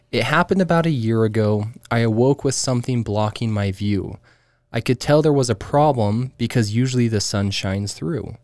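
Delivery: measured read-aloud voice; poem reading. Acted.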